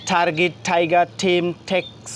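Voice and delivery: "টার্গেট, টাইগার, টিম, ট্যাক্স" run together with aspirated T; one-breath drill. Shown as a demonstration. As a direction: chain "টার্গেট" to "ট্যাক্স" evenly, each T puffed as ঠ. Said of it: "এক নিঃশ্বাসে পড়ার চেষ্টা করি".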